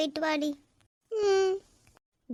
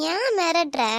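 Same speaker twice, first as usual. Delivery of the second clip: protesting; 3 semitones higher, 5 dB louder than usual. Acted. Girl protests threat.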